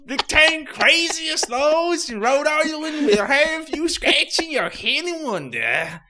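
high, very loud, slowed, cracking mock British yell; over-the-top British accent. Host reads the article headline in a yelled fake British accent. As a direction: bellow it like a cartoon British man. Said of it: "It's weirdly Australian".

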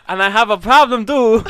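hammed-up complaint in a mock Asian accent. Podcaster retelling his date's complaint, loud mock Asian accent. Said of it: "And then she was like".

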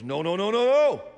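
rising to a high, loud no; firm refusal. Retold or imitated. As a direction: Joseph shouting his refusal. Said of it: "And he goes".

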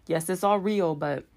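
talking through a burp; words cut by a burp. Real, not acted. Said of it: "excuse me, I keep burping".

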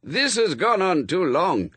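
high, emphatic fussy complaint; exasperated. A narrator's reading. Exasperated character takes charge in the story.

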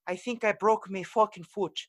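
mock Irish accent, high and strained; buddy in pain after a jet ski crash. Kevin on the radio after his accident, Irish accent. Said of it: "he goes".

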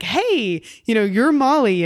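mock the guy's Australian accent lightly; casual Australian greeting, lightly imitated. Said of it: "in his Australian accent".

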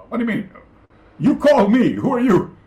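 high, loud, puzzled protest; retold phone reply. He answers the teacher's call, puzzled and loud. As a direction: push back, confused. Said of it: "in Japanese, I said".

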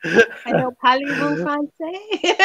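light French accent on a greeting. Shown as a demonstration. Co-host outdoing the host's bad attempt, in a French accent. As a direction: try a better French accent. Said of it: "That, see, that's much better".

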